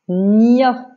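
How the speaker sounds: loud, deliberate dictated syllable; drawn-out syllable for a pupil to write; dictation. Shown as a demonstration. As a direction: dictate the syllable clearly and firmly. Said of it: "je vais te faire une dictée de syllabes".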